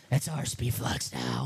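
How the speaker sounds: slow menacing villain voice; evil voice. Acted. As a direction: draw it out like a gloating villain. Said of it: "So the evil voice".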